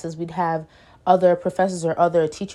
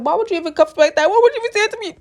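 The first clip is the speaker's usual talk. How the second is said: tag; 11 semitones higher, 3 dB louder, faster than usual. Retold or imitated. Voicing her upset thoughts at teacher.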